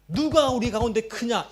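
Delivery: loud, high acted challenge; quarrelling. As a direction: throw it out like a rival in an argument. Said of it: "자기들끼리 싸우는 거예요".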